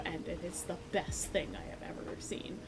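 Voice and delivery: whispered, heartfelt; sincere whisper. Real, not acted. Telling listeners why adult play matters, sincere whisper. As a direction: confide it like a precious truth.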